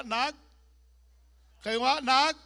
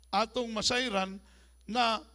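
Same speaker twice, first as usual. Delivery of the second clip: ordinary talk, nothing marked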